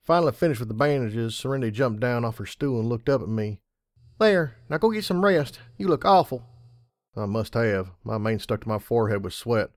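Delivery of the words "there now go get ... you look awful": higher, louder bossy filly. A narrator's reading. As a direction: order him to rest like a filly. Filly ordering rest.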